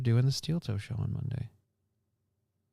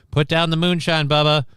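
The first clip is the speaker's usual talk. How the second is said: mock scolding; 5 semitones higher, 4 dB louder than usual.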